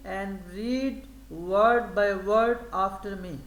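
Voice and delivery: very slow, spaced classroom instruction; slow teacher model. Shown as a demonstration. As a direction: spell the instruction out for pupils to copy. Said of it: "وہ کہتے ہیں". (استاد کی طرح بہت آہستہ ہدایت)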